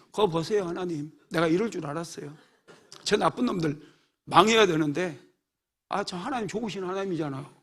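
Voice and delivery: a hint of sulky sarcasm, a bit soft; mildly sarcastic. Jonah grumbles to God, mild mock sarcasm. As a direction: lightly needle God. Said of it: "하나님께 빈정대는 거예요".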